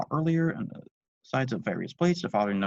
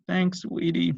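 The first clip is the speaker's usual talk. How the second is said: grateful; 9 semitones higher, 5 dB louder, much slower than usual. Acted. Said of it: "in a grateful tone".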